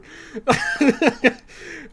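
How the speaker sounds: long high giggle; high drawn-out laugh. Real, not acted. Streamer laughs at the missing controls, long high giggle.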